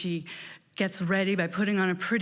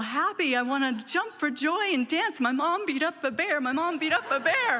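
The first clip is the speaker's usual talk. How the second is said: excited; 6 semitones higher than usual. Real, not acted. Child's joyful disbelief.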